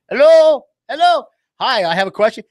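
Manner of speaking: loud, high hello into the phone; exasperated caller. Acted. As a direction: act out a fed-up customer. Acts frustrated customer calling.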